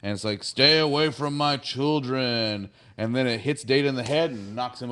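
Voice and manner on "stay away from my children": slow imitation of a booming being; big booming voice. The being warns the crew off its children, booming. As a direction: warn them off slowly and imposingly. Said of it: "this big booming voice".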